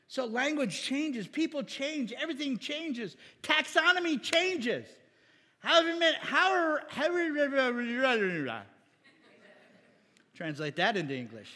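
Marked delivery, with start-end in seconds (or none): 5.6-8.6 loud, higher garbled babble; joking fake foreign gibberish; mock gibberish. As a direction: blurt a slurred nonsense stream, hammed up. Garbles words, asks to translate that.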